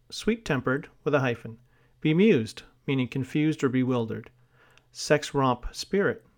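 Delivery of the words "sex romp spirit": "sex romp" spoken slowly and distinctly for students to write down; slow dictation. Shown as a demonstration. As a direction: read out slowly, word by word, for dictation. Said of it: "sex romp has a hyphen".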